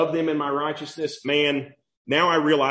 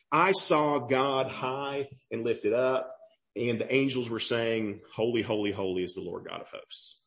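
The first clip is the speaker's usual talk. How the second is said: awed Isaiah; 5 semitones lower, 5 dB quieter than usual. Acted. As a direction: speak as one overwhelmed by seeing God. Preacher voicing Isaiah's vision.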